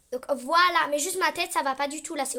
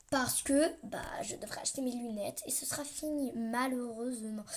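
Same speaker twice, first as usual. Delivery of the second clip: whisper; 2 semitones lower, 5 dB quieter than usual. Real, not acted. Aside about buying glasses.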